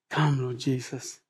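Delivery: a quiet, longing plea to the Lord; hushed prayer. Acted.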